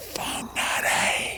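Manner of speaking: quiet, hushed whisper. Naming a place he has covered over: whispered Whangarei. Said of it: "I'm going to whisper it because I've covered it over".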